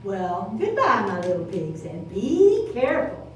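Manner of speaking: Mama Pig. Acted. Mama Pig bids her pigs farewell. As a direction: say goodbye lovingly. Mother says goodbye.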